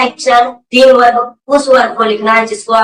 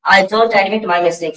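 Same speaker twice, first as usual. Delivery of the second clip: slow model answer; much slower than usual. Shown as a demonstration. Teacher models answer for class.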